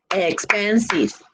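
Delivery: "Expensive" slowly, in three separate beats; syllable by syllable. Shown as a demonstration. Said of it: "Three syllables".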